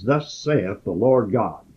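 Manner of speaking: slow, deliberate "Thus saith the Lord God"; firm and definite. Shown as a demonstration. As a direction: lean on "Thus" with steady, unhurried weight. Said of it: "Notice how firm this is, how definite it is".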